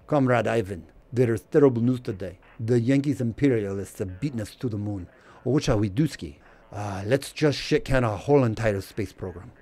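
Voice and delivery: put-on lightly done Russian accent for a Soviet official; a mild mock Russian accent, half-joking. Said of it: "That's my Russian accent".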